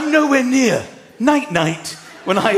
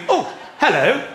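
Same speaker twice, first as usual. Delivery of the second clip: mock TV-presenter hello rising higher; chirpy fake-surprised presenter welcome; cheesy presenter greeting; 4 semitones higher than usual. Comic mocks the forced children's-TV intro, chirpy. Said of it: "before going".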